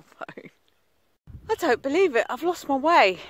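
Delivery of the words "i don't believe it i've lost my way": higher and louder, caught off guard at being lost; dismayed surprise. Real, not acted. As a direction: blurt it out in disbelief. Realises she is lost on the walk.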